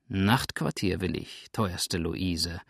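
cool, leisurely request; imperturbable calm. Acted. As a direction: answer with unshakeable composure. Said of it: "erwiderte Sander mit unzerstörbarem Gleichmut".

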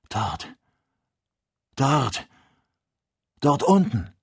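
rising cries pointing down there; building cry. A narrator's reading. Ferguson crying out to the horizon, building to a shout. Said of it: "mit einer Stimme, die fast übermenschlich klang".

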